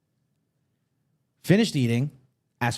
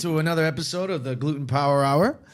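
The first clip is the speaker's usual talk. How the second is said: mock show host. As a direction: announce it like a cheesy radio host. Mock show intro, loud start.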